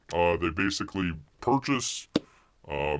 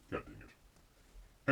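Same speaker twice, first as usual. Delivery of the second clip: muttered; 15 dB quieter, much slower than usual. Real, not acted. Siri failed to answer.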